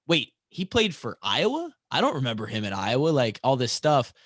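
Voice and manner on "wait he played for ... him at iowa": puzzled fans. Retold or imitated. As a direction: imitate baffled fans doing a double take. Voicing puzzled fans on hearing news.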